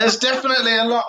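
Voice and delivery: laughing while answering; words half laughed out. Real, not acted. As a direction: giggle through it. Laughing reply.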